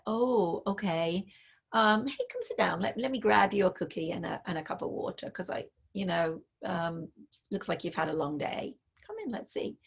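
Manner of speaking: soft, quiet, welcoming invitation to sit down; soothing parent. Retold or imitated. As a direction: comfort her gently, like offering a cookie. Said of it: "that's your cue".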